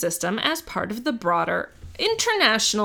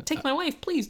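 quick one-liner delivery, a hint of Catskills comic; old borscht belt comic; 7 semitones higher, 4 dB quieter than usual. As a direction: toss off the punchline like a vaudeville comedian. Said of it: "an old-timey Catskill comedian".

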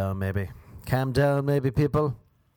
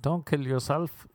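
slow, higher mock concern; worried commenters; 4 semitones higher, slower than usual. People replying to his tweet, mock worried. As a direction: imitate fretful pleading, drawn out. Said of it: "People be like".

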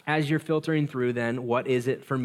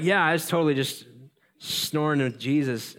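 mock sheepish excuse; 3 semitones higher than usual. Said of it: "and I'd be like".

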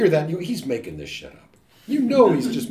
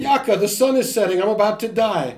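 stoic calm; 5 semitones higher, 6 dB louder than usual. Shown as a demonstration. Villager facing the setting sun, stoic and calm. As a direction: say it calmly, no alarm. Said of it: "a stoic response to hardship".

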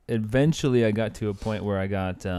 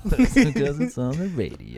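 higher, louder hammed-up radio voice; mock radio voice; 6 semitones higher, 5 dB louder than usual. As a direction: echo the pickup line in a mock radio voice. Echoes the mock radio pickup line.

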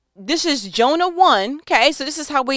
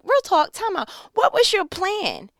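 talking to Jonah; 2 semitones higher than usual. Retold or imitated. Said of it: "sat with him and was like".

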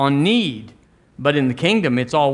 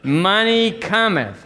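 higher, slower, drawn-out declaration; high and slow, with more conviction; more emphatic call-and-response; 5 semitones higher, slower than usual. Shown as a demonstration. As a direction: say it better, stretching both words for the congregation. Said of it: "Let's do it better".

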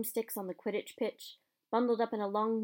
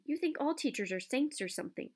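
snapped; 4 semitones higher than usual. Acted. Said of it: "snapped Ron".

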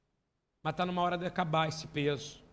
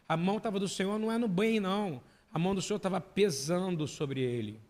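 ordinary delivery

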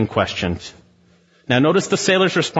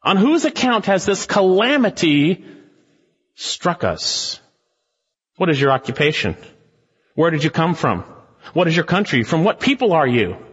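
rapid-fire demands from panicked sailors; frantic sailors; 3 semitones higher than usual. Retold or imitated. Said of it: "sailors in this ship ... going".

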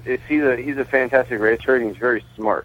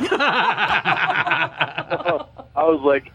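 laughing; much slower than usual. Real, not acted. Laughing at race win.

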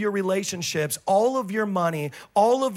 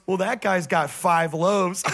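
slow, dry deadpan; dry sarcasm; slower than usual. Retold or imitated. Andrew mocking the idea of feeding crowds, dry sarcasm. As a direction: drawl it like it's obvious. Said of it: "And he gets sarcastic".

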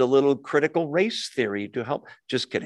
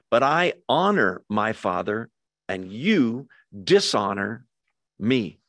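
very calm; 2 semitones lower than usual. Acted. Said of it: "he says this very calmly".

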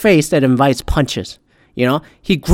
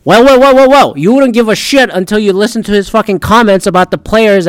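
mocking well well well; 5 semitones higher than usual. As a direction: throw the wells back at the doubter. Mocking retort to imagined objection.

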